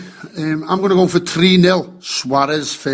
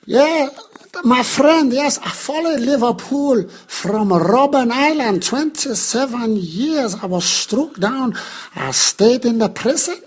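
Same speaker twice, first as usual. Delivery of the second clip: lightly voiced elderly statesman, a bit higher; Nelson impression; 4 semitones higher than usual. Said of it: "Nelson, you're late".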